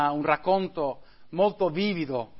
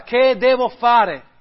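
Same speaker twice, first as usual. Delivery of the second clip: loud, slow, high desperate plea; Christian crying out in anguish over his book; 5 semitones higher, 7 dB louder, slower than usual. A narrator's reading. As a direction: cry it out, heartbroken. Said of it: "gridò con voce accorata".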